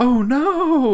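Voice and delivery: overacted very high cry, "no" stretched out. Retelling a game cutscene: impression of Maria saying oh no. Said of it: "Very good impression".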